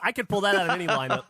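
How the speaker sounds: laughing. Real, not acted. Joking while laughing.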